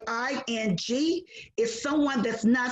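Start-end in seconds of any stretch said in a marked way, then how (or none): 0.1-1.3 slow, letter-by-letter spelling; spelling a word for children; spelled out letter by letter. Shown as a demonstration. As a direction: spell each letter out slowly for the kids. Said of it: "And the word lying".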